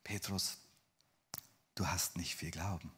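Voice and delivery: hushed, mild reproof; gentle Jesus. Acted. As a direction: say it quietly to a follower. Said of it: "sagte Jesus".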